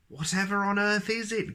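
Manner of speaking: grumbled. Acted. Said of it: "grumbled Mister Nonsense".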